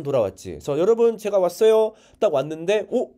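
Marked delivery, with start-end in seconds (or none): 0.8-1.9 high, loud announcement of arrival; cheerful calling out. Retold or imitated. Son arriving home calls to his family, high and loud. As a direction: call out brightly to the whole house.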